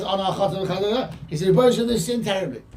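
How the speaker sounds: quick acted admission of guilt; brisk, mildly dramatised confession; confessing first tone. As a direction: run through the confession without pleading. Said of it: "of tone of voice. First he says".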